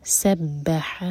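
سبح stretched slowly with a throaty ha; throat ha. Shown as a demonstration. Teacher showing students the throat ha, slow. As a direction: draw out سبح. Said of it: "ہا حلق سے".

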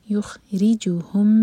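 یخرجوہم with a light thin ra. Shown as a demonstration. Teacher models the thin ra slowly. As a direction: keep the ra of یخرجوہم thin, slow. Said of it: "تو یہ ہے باریک".

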